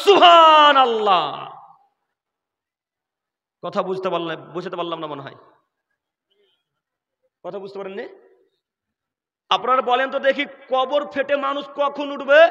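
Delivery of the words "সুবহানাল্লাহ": loud, drawn-out, slow, awed exclaiming. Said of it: "শ্রোতারা বলছে".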